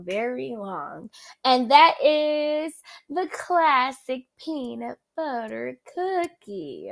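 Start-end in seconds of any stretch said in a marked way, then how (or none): 1.4-6.9 slow Southern drawl on peanut butter cookie; southern accent. Real, not acted. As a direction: let a Southern accent slip out, slowly. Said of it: "my southern accent just jumped out then".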